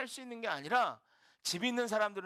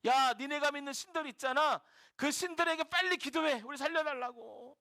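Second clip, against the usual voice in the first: mock urgent cry, pitch raised; 다급한 외침 흉내; 4 semitones higher than usual. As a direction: act out panicked sailors calling out, mildly. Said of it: "막 소리쳐". (선원들이 다급히 소리치는 흉내)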